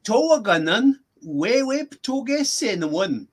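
slow, measured phrase with pauses between words; slow repeat. Shown as a demonstration. Language teacher repeating the rest for a student, slowly. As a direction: spell it out by ear for a learner, unhurried. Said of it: "can you do that once more slowly".

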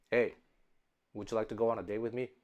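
low, soft, fast robotic monotone; flat, mechanical delivery. Retold or imitated. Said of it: "I sound like a robot".

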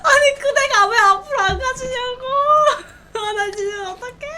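high, loud tearful wailing; crying out at the stuck swing; frustrated whining. Real, not acted. Swing won't move, near tears. (울먹이며 짜증내는 외침)

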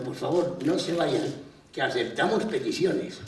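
lightly acted entertainer begging an audience to stay; pleading bandleader. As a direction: call out a cheery, hammed-up appeal. Orquesta suplica al público que huye.

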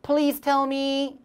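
very slow, words stretched; slow model phrase; slow choral reading. Shown as a demonstration. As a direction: lead the class slowly. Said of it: "때문에 시작".

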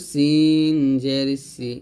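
tongue tip down for সিন and সি. Shown as a demonstration. Teacher models sin, thin whistled s in সিন. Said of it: "আগা নিচ চিরাতের সাথে লাগিয়ে".

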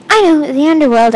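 high, loud announcement; yelled. A narrator's reading. Girl telling her friends where they have landed, yelling. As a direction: call it out to the group. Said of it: "I yelled".

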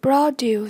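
"Produce" stressed on PRO; stress on first syllable. Shown as a demonstration. Teacher modelling vocabulary for learners, "Produce" stressed on PRO. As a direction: hit PRO in "Produce", lighter duce. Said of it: "nhấn âm một".

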